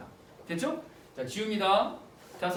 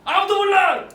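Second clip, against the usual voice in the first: hammed-up high, very loud yell; acted drunk screaming in self-pity; drunken wailing shout; 11 semitones higher, 12 dB louder than usual. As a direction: cry it out at the whole world. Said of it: "이러면서 막 울어".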